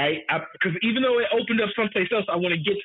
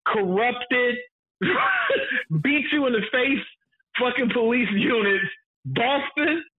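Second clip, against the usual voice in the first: laughing through it, pitched higher; laughing rant; 6 semitones higher than usual. Real, not acted. Ranting to co-host about the worst police, laughing. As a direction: break into laughter mid-rant, voice riding high.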